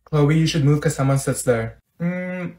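ordinary talk

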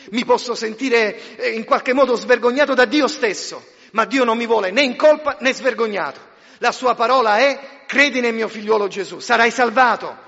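loud, soaring preacher's voice; fiery pulpit proclamation; forceful preaching. Acted. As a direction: proclaim it to the whole hall.

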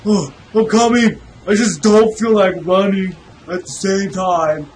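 panting while talking; out of breath. Real, not acted. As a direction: talk through heavy breaths. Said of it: "I'm out of breath".

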